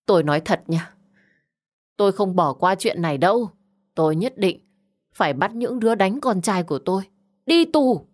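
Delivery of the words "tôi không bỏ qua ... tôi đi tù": angry vow. Acted. Bà ta vừa quát.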